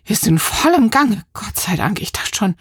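breathless relief, trailing to a whisper; out of breath. Acted. Sophie arriving on her bike, panting with relief. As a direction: gasp it out after the bike ride. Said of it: "keucht sie".

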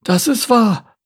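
high turtle voice, sympathetic agreement. A narrator's reading. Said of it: "bestätigte die Schildkröte mitfühlend".

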